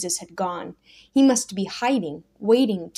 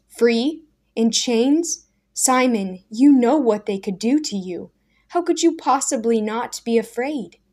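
louder, higher pleading disbelief; Daniel protesting Simon's calm, raised voice; incredulous protest; 3 semitones higher, 6 dB louder than usual. Acted. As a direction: plead with him, unbelieving.

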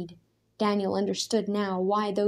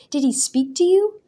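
much higher, loud insistent question; demanding; 10 semitones higher, 8 dB louder than usual. A narrator's reading. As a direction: insist on knowing. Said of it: "he demanded".

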